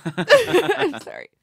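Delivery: high, tearful laugh through the words; crying. Real, not acted. Host apologizing for crying at guest's news, tearful and laughing. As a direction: apologize through real happy tears. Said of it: "she's actually crying".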